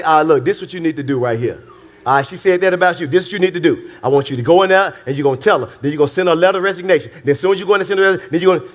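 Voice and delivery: a lightly done rapid-fire advice giver; husband fast-talking a fix to his wife; fast fixer. Acted. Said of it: "She don't want you to say".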